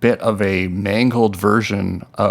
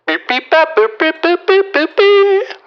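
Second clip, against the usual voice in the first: very high sung beep-boop chirps; robot beeps; 3 dB louder than usual. Acted. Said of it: "it's me, the Merminda unit".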